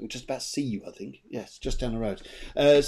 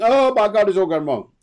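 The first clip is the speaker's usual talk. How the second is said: mock dismay; 7 semitones higher, 10 dB louder than usual. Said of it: "you think".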